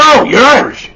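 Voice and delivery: high, swooping, pleased voice; mock delighted reaction. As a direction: imitate people thrilled at the news. Delighted reaction to Irish father.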